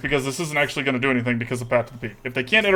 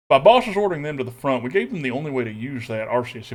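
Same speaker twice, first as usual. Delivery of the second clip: put-on Texas accent. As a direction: say it in a thick Texan accent. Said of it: "Making me do this accent here".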